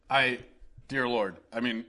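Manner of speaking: ordinary delivery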